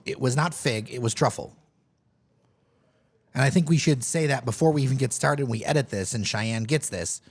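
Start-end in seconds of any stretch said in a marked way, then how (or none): 0.1-1.5 it was NOT fig; stress on not. Real, not acted. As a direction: hit the word not firmly. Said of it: "just so people know".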